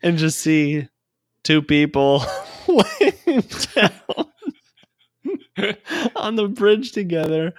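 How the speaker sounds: real laughter through the words, high and loud; cracking up at his own story; laughing hard. Real, not acted. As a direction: barely get the story out for laughing.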